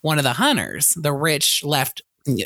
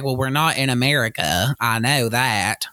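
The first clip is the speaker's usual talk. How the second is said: put-on Mississippi accent; 3 semitones lower than usual. Imitating Crystal answering the headmaster, light Mississippi accent. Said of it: "That's a good accent right there".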